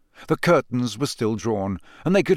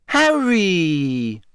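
beaming; 6 semitones higher, 4 dB louder than usual. A narrator's reading.

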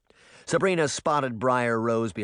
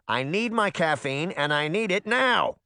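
put-on high, insistent old-lady demand; rising, impatient old-woman voice; little old woman; 6 semitones higher than usual. A narrator's reading. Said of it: "said a little old woman".

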